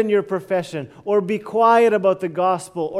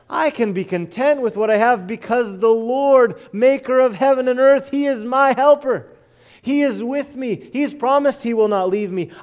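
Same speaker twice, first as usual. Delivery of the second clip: higher and louder, full-force preaching; bold declaration; 4 semitones higher, 4 dB louder than usual. Real, not acted. Preacher to believers, a loud, higher declaration of trust. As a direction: proclaim it like a battle cry of faith.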